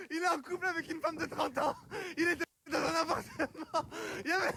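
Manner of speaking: out of breath, talking on the run; speaking while running. Real, not acted. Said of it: "J'arrive pas à parler en courant".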